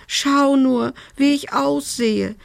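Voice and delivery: high-pitched, drawn-out whine; wailing. A narrator's reading. Soot-covered fairy showing her state, high wailing. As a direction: lament it way up high. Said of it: "jammerte sie".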